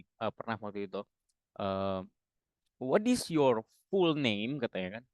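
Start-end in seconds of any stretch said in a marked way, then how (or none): 2.8-4.6 slow, higher "What is your full name?", "full" said like "fool"; mispronounced question. Retold or imitated. Tutor imitating someone's question, "full" mispronounced as "fool". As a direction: stretch "full" into "fool", slowly. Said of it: "ada yang nanya kayak gini".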